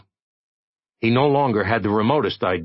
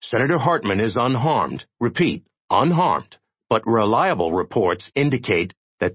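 solemn announcer; 2 semitones higher than usual. Acted. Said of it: "a solemn announcer was saying".

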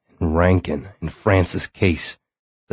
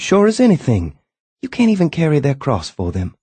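higher, bitter sarcastic tirade; mock him, rising in anger; sarcastic wife; 7 semitones higher than usual. A narrator's reading.

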